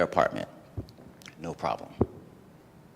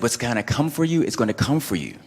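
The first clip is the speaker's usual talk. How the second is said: louder, higher voice of the universe speaking; booming inner voice, louder and higher; 4 semitones higher, 7 dB louder than usual. Retold or imitated. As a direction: announce it like a message from above. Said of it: "And it said".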